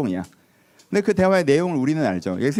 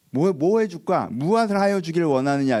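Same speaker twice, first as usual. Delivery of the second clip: 호의적인 예수님; 3 semitones higher than usual. Retold or imitated. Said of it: "이렇게 하죠".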